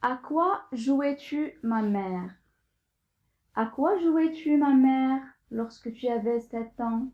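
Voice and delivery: measured verse reading, pausing after each line; poem recitation. Acted. Teacher reads a mother-child poem to pupils, poem recitation. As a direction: recite it line by line, lifting the opening questions.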